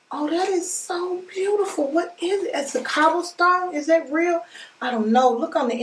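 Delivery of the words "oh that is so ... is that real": delighted gasp. Real, not acted. Gasping at a beautiful gift.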